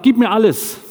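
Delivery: loud, high, forceful demand; demanding captain. Retold or imitated. Captain demands everything from the missionary, loud and high. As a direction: bark it like a captain claiming everything. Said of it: "der sagt".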